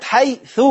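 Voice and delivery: "حيث" pronounced hay-thu; final damma sounded. Shown as a demonstration. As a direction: end "حيث" on a clear short "u". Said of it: "على الضم من النطق أهو".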